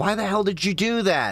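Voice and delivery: full high-pitched yelling. Retelling yelling at an ex who canceled her credit card: imitating own past yelling. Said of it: "I remember yelling at her".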